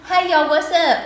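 high, loud Southern vampire greeting; Southern vampire accent. Pretend. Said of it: "I do hope they had a Southern accent".

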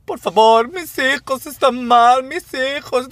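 súplica lastimera mucho más aguda, lenta; mendigo teatral. Retold or imitated. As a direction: imitando a un mendigo que exagera su pena. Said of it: "a sollozar como de show". (imitando al mendigo del metro, súplica aguda y teatral)

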